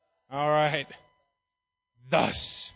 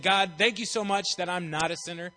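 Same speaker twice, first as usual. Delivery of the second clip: arrogant; 5 dB louder than usual. Retold or imitated. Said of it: "the one guy's all arrogant".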